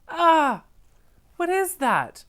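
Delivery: high, loud startled cry; mock shock at the picture; shocked surprise. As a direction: gasp at the strange drawing. Reader reacts shocked to drawing.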